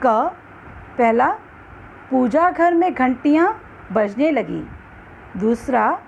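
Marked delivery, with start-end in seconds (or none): 2.1-4.7 पूजा घर joined as one word, no pause; words run together. Shown as a demonstration. Teacher contrasts juncture in examples, running पूजा घर together. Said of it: "किन शब्दों को एक प्रवाह में".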